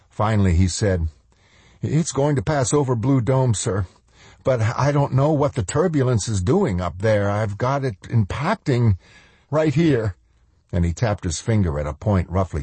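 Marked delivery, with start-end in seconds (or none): 1.8-10.2 nervous officer. Acted. Lombard nervously reports.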